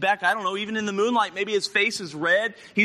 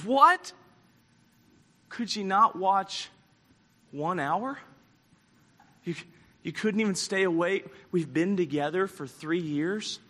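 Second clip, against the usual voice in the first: subdued, let-down reproach with heavy pauses; acting a wounded leader let down by friends; hurt disappointment. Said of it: "He's just so disappointed".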